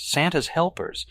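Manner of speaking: "Santa's helpers" high and drawn out; emphatic correction. A narrator's reading. Evelyn explaining the elves, slow high stress on "Santa's helpers". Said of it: "she stresses".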